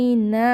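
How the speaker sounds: ইন্না with the a held one beat only; ইন্না with one-alif length; one-beat stretch. Shown as a demonstration. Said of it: "খাড়া লিপ এক আলিফ টান হবে".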